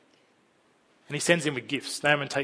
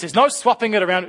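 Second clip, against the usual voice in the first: put-on higher, stubborn child voice; insistent child; 5 semitones higher, 6 dB louder than usual. Child refusing to let the parent swap the Lego piece, higher voice. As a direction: insist like a small kid.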